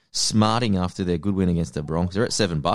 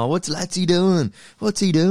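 higher, whiny mock fan voice; imitating annoyed fans; 10 semitones higher, 4 dB louder than usual. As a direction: play an outraged fan complaining. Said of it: "a flood of direct messages".

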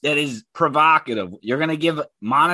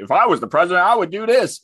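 higher, louder mocking quote; mock know-it-all; 4 semitones higher, 4 dB louder, faster than usual. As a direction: imitate a self-important armchair expert. Mimics armchair presidents.

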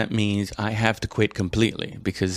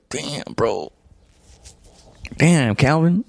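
disappointed fan, building; 5 semitones higher than usual. Retold or imitated. Fan watching Calvin get beaten, rising to a high shout. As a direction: groan then shout at him to put his hands up. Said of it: "and you're just like".

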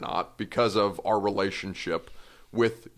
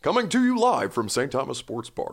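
TV reporter voice; 3 semitones higher than usual. Pretend. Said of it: "not talking like a television reporter".

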